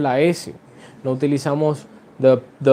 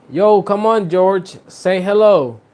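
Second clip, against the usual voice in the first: higher, louder playful call to an imaginary friend; calling out playfully; 5 semitones higher, 4 dB louder, slower than usual. Pretend. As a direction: coax the invisible friend to speak. Calls invisible friend George. (llamando en broma al amigo invisible, más alto)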